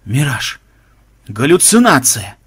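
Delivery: hoarse, wheezy exclamation; husky cry of disbelief; wheezed. Acted. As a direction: wheeze it out in shock. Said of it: "просипел Махмуд".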